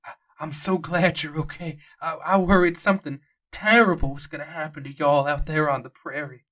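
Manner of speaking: a lightly voiced old docent, glad and relieved. Old docent greeting the returning travellers, relieved. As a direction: greet the travellers like a worried old park guide.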